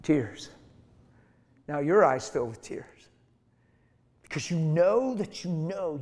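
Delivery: ordinary talk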